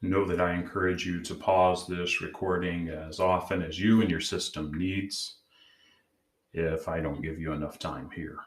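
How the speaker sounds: calm, measured meditation guide; guided meditation. Acted. Host leading listeners to check in with their inner parts, guided meditation. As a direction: gently guide them inward, leaving long pauses.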